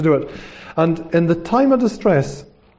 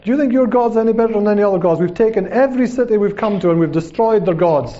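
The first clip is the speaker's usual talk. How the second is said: higher-pitched taunting challenge; mock enemy boast, pitched up; crying out; 4 semitones higher than usual. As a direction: call up scornfully to troops on a wall. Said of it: "they cried out".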